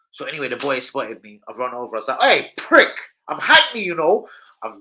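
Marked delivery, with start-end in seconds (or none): 2.2-4.3 high, loud mock challenge; retold taunt. Kid taunting the boy with the knife, loud mock challenge. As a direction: taunt him like a cocky kid.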